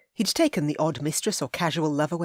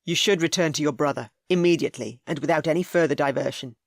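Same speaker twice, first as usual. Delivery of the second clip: firm, commanding and louder; 4 dB louder than usual. Acted. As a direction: lay down the law. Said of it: "He kept his voice firm".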